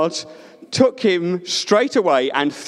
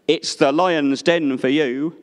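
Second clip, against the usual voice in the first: big deep voice; 3 semitones lower than usual. Acted. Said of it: "In his big, deep voice".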